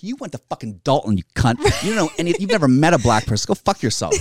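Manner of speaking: heated retort; mildly riled mock comeback; comic snapping back at Princeton students, worked up; worked up rant. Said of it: "I got worked up a little bit there".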